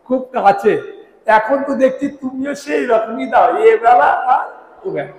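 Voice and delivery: চড়া গলায় রেগে অভিযোগ; ঠকে গিয়ে চেঁচিয়ে মালিককে ধরছে; রাগী নালিশ. Acted. ঠকে যাওয়া চাকরের নালিশ. (মালিকের কাছে ঠকে যাওয়া চাকরের রাগী চিৎকার)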